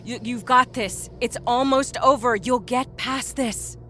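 high, slow reassurance; earnest, drawn-out comfort; encouraging. A narrator's reading. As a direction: urge a spent patient on. Nurse encourages exhausted woman in labor.

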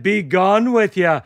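amateur Irish lilt; lightly hammed Irish brogue; awful Irish accent. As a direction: dismiss someone in a bad Irish accent. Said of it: "for my awful accent".

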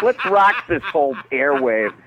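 high, far-off mock radio yell; radio scream. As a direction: shout it like an overblown DJ. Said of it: "We used to scream at the top of our lungs".

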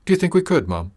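hope rising in her voice; hopeful. A narrator's reading. Sadie asks hopefully about healer.

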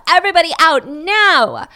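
mock shout to clear the room; retold police order. Police ordering everyone out of the crime scene, retold shout.

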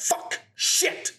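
"Fuck" and "Shit" spat out voicelessly; "Fuck", "Shit" as two separate percussive bursts; sharply ended swear words. Shown as a demonstration. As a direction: hiss the first sound of "Fuck" and "Shit", then stop dead. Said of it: "And it ends so sharply".

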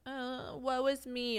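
high, slow, moaning mock self-pity; whiny complainer. Mocking the whiners she can't stand, high and slow. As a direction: drag it out like a dramatic whiner. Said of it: "a bitch is just, like, whiny".

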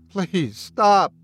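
high, pleading whimper. A narrator's reading. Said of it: "Bradley whimpered".

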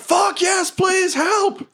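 high screamed cry for help; desperate plea. Acted. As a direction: beg for rescue at a shout. Hobgoblin answers, begging for rescue.

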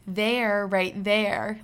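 there, right there with weight on each there; stress on there. Retold or imitated. Mom pointing at the twins on the screen, there stressed. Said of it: "like, emphasis on the there".

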